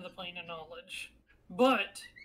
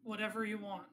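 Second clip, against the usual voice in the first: trembling voice; 5 dB quieter, faster than usual. Acted. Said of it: "in a slightly trembling voice".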